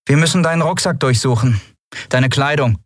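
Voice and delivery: a hint of a strained woman giving orders; Andriel's voice. Andriel tells Lien to submit to a search, lightly voiced.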